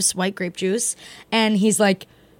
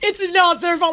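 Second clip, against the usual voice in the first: raised-pitch mock pleading; groveling; 6 semitones higher than usual. Pleading with the bouncer for her friends, mock groveling. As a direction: plead high, as if begging. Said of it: "Like, I was groveling".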